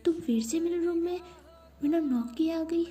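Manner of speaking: put-on indignant girl snapping at her friend; annoyed scolding. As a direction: tell her off for barging in without knocking. Khushi scolds Nancy for barging in.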